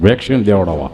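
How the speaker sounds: deep mimicked reply; imitating friend. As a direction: repeat it low, as the friend. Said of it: "મને કહે કે".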